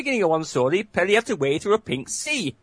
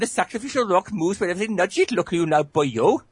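put-on Welsh accent. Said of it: "in the Welsh at the end".

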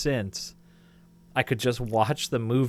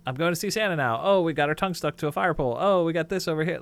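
lightly voiced kid, higher and quick; excited kid; 5 semitones higher, faster than usual. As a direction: rattle off a child's bouncing thoughts. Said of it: "I'm just bouncing from this thing to this thing".

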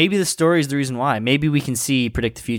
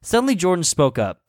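story narration. Acted. Reads fanfic as story narration.

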